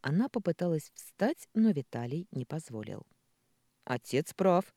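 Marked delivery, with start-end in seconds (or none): 3.8-4.7 firmly. Acted. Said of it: "жёстко сказал он".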